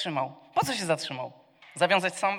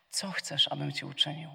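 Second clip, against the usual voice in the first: softer, gentle caring ask; caring question; 3 semitones lower, 7 dB quieter than usual. Acted. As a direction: ask with quiet concern. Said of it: "który z troską pyta". (łagodne, cichsze, troskliwe pytanie)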